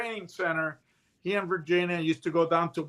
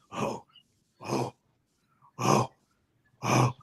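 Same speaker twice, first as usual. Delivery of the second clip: bear grunts; 7 semitones lower, slower than usual. Retold or imitated. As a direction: huff like a bear running beside you. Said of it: "I could hear the bear going".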